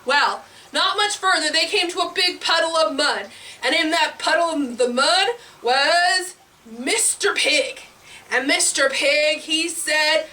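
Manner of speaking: put-on animated read-to-kids narration; children's storytelling. A narrator's reading. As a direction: tell it playfully to small listeners.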